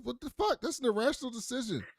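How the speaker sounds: high, outraged scolding; mock angry boss; furious boss. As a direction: tear into him over the bad call. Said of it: "And Adler's like".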